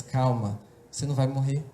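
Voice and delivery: low, steady comfort; reassuring heavenly Father. Retold or imitated. Heavenly Father speaking amid tribulation, low and calming. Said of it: "a voz do teu Pai do céu".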